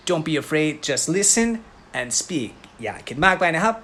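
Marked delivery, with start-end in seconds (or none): 0.1-2.5 1 very slow encouragement. Shown as a demonstration. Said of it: "และพูดตาม so".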